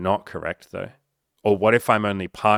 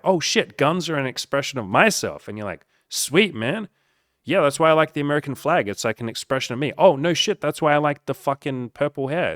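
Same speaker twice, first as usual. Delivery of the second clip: excited mock bonding; 6 semitones higher than usual. Gun owner and purple-haired hippie realizing they agree, excited. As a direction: gush like two new friends discovering common ground. Acted friendly discovery between opponents.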